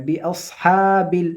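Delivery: "বিআসহাবিল" with the vowel held for one beat; one-beat stretch. Shown as a demonstration. Teacher showing students the one-alif stretch. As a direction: hold the long vowel in "বিআসহাবিল" one count. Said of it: "এক আলিফ পরিমাণ টান".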